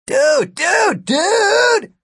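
high, loud frantic shout. A narrator's reading. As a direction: yell it to stop a fight. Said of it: "Gary shouted".

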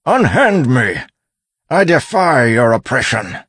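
high, loud yell of protest; screamed defiance. A narrator's reading. Miles held down by constables, screamed defiance. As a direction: cry out defiantly while being overpowered. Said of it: "Miles screamed".

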